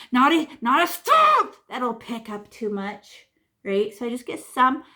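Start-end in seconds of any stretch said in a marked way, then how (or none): 0.1-1.6 louder and higher, Not a stop; loud warning. Real, not acted. Teacher warns students not to stab the paint, loud. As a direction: call it out sharply to the class. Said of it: "warning about stabbing brush".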